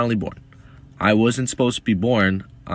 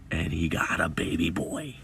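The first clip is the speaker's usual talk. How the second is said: whispered punchline; 7 dB quieter than usual. Real, not acted. Punchline of a 9/11 birth story.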